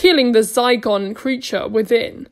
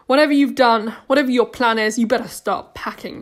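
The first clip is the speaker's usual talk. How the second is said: threatening; 4 dB louder than usual. Acted. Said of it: "they threatened".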